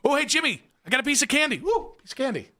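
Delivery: put-on high, coaxing like to a child; sing-song coaxing voice. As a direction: dangle candy in a cooing voice. Handler coaxing Jimmy with candy.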